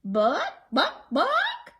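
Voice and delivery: high loud clucking book; clucking hen. Acted. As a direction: cluck it clearly. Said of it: "clucked the hen quite clearly".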